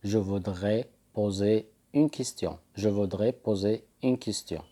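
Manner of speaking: slow, careful French phrase; teacher modelling French slowly; slow French model. Shown as a demonstration. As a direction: say it slowly for learners to repeat. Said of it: "تقول".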